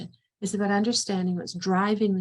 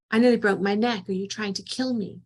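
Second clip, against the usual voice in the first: mock yell, louder on the first line; retold yelling; 4 dB louder than usual. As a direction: re-enact the angry mother yelling upstairs. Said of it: "I'm yelling".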